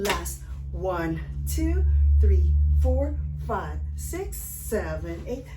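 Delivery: loud dance count over music; shouted count. Shown as a demonstration. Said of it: "counting over music".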